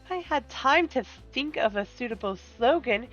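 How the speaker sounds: a gracious schemer taking offence; silky polite villain. Acted. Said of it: "Get your best villain voice ready".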